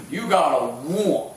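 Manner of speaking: slow North Carolina want sounding like wont; slow drawled North Carolina coach; North Carolina accent. Retold or imitated. Coach demanding hunger, slow North Carolina accent. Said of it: "in that thick North Carolina accent".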